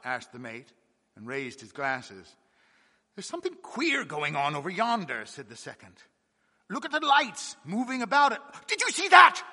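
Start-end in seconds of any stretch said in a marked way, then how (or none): 3.2-5.3 uneasy. Acted. Second mate notices strange lights. 6.7-9.4 high, loud urgent shout; second mate alarmed at lights on the wreck, shouting; sharp excited call. Acted. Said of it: "came out swiftly with a sharp accentuation".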